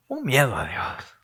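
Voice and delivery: breathy whisper for emphasis. Real, not acted. Preacher whispers to the congregation about fear of God.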